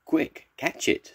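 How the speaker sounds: high, urgent storybook cry; urgent call. A narrator's reading. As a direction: call out as if giving chase. Nurse urgently calls during cat chase.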